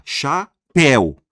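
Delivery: "chapéu" split in two slow, loud syllables. Shown as a demonstration. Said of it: "Uma, duas sílabas".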